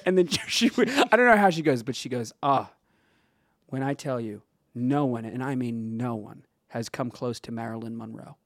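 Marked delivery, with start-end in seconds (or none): 2.4-8.4 measured, dramatic retelling, sinking low; lightly acted old lady. Retold old lady's solemn speech.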